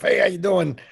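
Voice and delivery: lightly gruff bartender greeting; a hint of a gruff barkeep. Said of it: "kinda was like the gruff".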